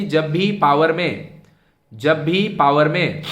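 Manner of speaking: slow, drawn-out stress on भी; emphatic rule. Real, not acted. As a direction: hammer home जब भी, stretching भी slowly. Teacher repeats rule for emphasis.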